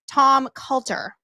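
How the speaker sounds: Coulter said with a Boston accent, r dropped. Shown as a demonstration. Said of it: "I really wanna say Coulter with my accent".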